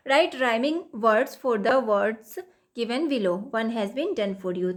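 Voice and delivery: each English word read out slowly and evenly; slow textbook reading. Acted. Teacher reading the worksheet instruction to students, slow and deliberate. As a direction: read the task aloud slowly for the class.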